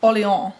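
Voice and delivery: "Orleans," the French way, like "or-lay-ahn"; French-style pronunciation. Shown as a demonstration. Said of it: "they call it the Kingdom of".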